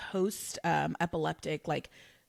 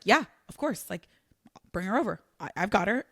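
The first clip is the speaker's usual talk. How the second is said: eager yes; 3 semitones higher, 3 dB louder than usual. Retold or imitated. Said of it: "heart was like".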